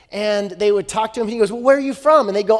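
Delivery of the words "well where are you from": high, loud chummy question; schmoozing. Acted. Prince shooting the breeze with travelers, schmoozing. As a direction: eagerly make small talk, hammed up. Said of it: "then he would schmooze them".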